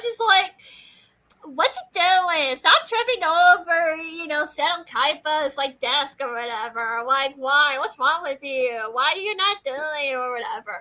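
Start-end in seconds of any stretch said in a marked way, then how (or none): 1.6-10.8 mean, harsh scolding tone. Retelling how a character scolded Sarika: imitating someone being mean. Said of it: "She was mean to Sarika".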